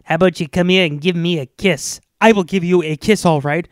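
loud tough-guy movie voice; Charles Bronson. Retold or imitated. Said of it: "supposed to be, uh, Charles Bronson".

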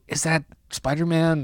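hushed aside to a friend; whispering. Retold or imitated. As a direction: imitate quietly asking during a movie. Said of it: "I was whispering to you".

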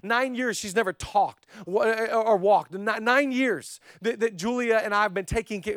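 high-pitched, halting retelling of distress; retold emotional outpouring. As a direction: relay her tearful words, stumbling over them. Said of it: "I'm very emotional".

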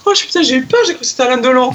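high excited relief, laughing through it; panicked relief. Retold or imitated. Telling a friend on the phone she thought it was Delon, excited and laughing. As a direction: blurt it out half laughing, shaken.

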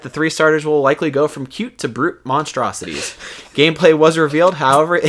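scripted game-news delivery; news read. Real, not acted. Host reading Pokemon news to listeners, scripted news read. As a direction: read it out like a show segment.

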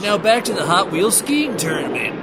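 TV announcer. Pretend. Mock TV announcer segue.

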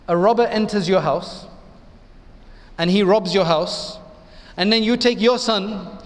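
put-on light South African accent, slowed and rising toward the end; a hint of South African accent, imitating a late preacher. Lecturer imitating a South African preacher's parable in mild South African accent. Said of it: "in his South African accent".

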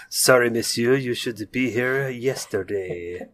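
lightly put-on French accent; Clouseau-style French accent, slow. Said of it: "every time you do a French accent, it's obviously Inspector Clouseau".

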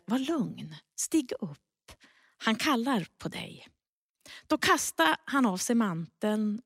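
measured, solemn Bible reading; scripture reading. A narrator's reading. Pastor reading Mark to the congregation, solemn reading voice. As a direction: read the Gospel passage to the congregation.

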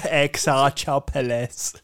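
slow, laughing through the name; giggling while repeating it. Real, not acted.

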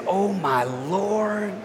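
very slow, soft sigh of dread; dismayed. Shown as a demonstration. Preacher describing how people approach things, a slow soft weary sigh. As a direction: stretch it out, weighed down. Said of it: "you approach things".

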